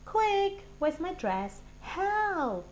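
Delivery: high, loud flustered cries; hurried frantic child; panicky rush. Acted. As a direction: scramble in a panic. Child panicking changing costume.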